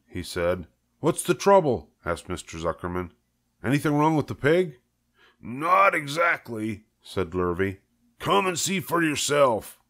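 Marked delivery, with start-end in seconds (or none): 1.0-1.9 higher, puzzled farmer; Zuckerman voice. Acted. 3.6-9.8 higher, hushed awe; farmhand voice. Acted. Dialogue voiced in story.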